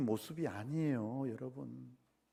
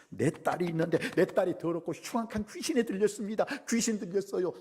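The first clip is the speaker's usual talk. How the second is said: higher, pleading cry of a mother; acted anguished appeal; crying out desperately; 6 semitones higher than usual. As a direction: plead urgently for your daughter. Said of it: "그래서 소리를 질렀어요".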